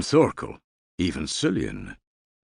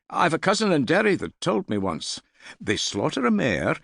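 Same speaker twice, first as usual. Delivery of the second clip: put-on high, fast, keen boy's voice; a young lad bursting to share his news; eager young lad; 12 semitones higher than usual. A narrator's reading. Young man telling the hall about a king-making, eager and high.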